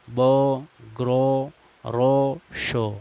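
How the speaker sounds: بو، گرو، رو، شو said slowly, each with a long oh sound; careful teacher recap of the oh words; oh vowel demo. Shown as a demonstration. Teacher to students, recapping the examples slowly. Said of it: "مجہول طریقے پر پڑھا گیا ہے".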